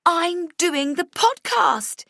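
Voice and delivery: high, loud, drawn-out cheer; triumphant yell. A narrator's reading. Vivian yelling her triumph to the office. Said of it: "she yells".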